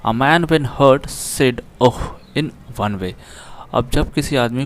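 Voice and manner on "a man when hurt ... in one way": slow, careful reading aloud of the English line; slow text reading. Shown as a demonstration. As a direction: read each word out deliberately for the class. Reads English text aloud slowly. (धीमे, साफ़ अंग्रेज़ी पाठ-वाचन)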